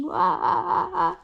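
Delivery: 1 mock baby wail. Mimics crying baby.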